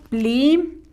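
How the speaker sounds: pli said alone and held; a separate, lengthened pli; dictated syllable. Shown as a demonstration. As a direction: set pli apart for pupils writing. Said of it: "ahora sí con rojo".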